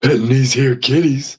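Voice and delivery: a half-hearted hint of Bubbles; lightly voiced Bubbles; Bubbles impression. Giving in to friends, a half-hearted Bubbles voice. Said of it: "I can't even do his voice".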